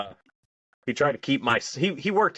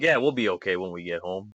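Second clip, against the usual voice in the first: low, quick reassuring aside; mock reassurance; 5 semitones lower than usual. Retelling a buddy comforting him as he teared up, mock reassurance. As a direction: lightly play the steady buddy, pitched down.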